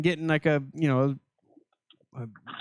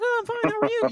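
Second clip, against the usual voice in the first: chirpy autopilot greeting. Retold or imitated. Mimicking autopilot small talk.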